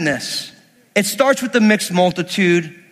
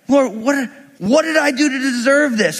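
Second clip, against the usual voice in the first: higher-pitched put-upon plea; acted frustrated protest; 4 semitones higher than usual. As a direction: complain to God, playing it up. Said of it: "you feel just like this".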